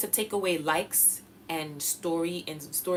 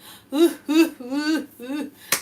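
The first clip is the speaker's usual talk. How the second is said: mock cry; 8 semitones higher, 6 dB louder than usual. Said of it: "I have to be like".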